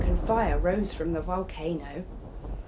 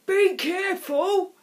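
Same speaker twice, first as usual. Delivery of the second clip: higher, louder fond warning; caring grandfather; 10 semitones higher, 5 dB louder than usual. A narrator's reading. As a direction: send the boy off with care. Grandfather sends Tom off.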